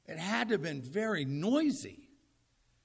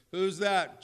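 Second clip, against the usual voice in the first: calling out; 5 dB louder than usual. Acted. Peter calls out from boat.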